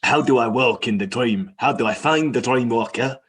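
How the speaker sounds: lightly voiced Rumpert, hurried and flustered. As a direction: blurt the questions after a slap to the face. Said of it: "slaps himself in the face and goes".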